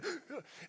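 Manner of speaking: quick mock gasp; short, high intake of breath; nervous gasp. Misses layup, imitates nervous gasp.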